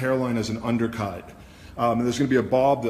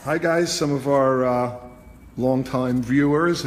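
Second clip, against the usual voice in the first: game show host; 3 dB louder, slower than usual. Real, not acted. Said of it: "I sound like a T V game show host or something".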